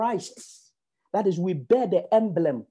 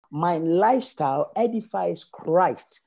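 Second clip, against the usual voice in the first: slow declaration; 3 semitones lower, slower than usual. Acted. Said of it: "Declare that to yourself right now".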